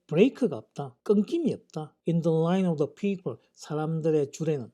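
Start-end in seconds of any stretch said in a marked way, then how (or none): 2.1-3.4 very slow, careful English sentence; slow example reading. Shown as a demonstration. English teacher reading an example sentence slowly to students. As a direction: read each English word slowly for learners.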